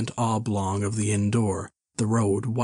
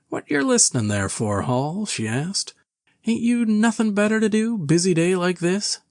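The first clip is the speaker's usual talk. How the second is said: scolding wife; 10 semitones higher than usual. Acted. Innkeeper's wife scolds husband.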